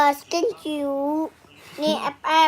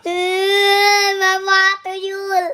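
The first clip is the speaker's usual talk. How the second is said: fake crying; 4 semitones higher, 5 dB louder, much slower than usual. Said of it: "Sekarang kita acting nangis".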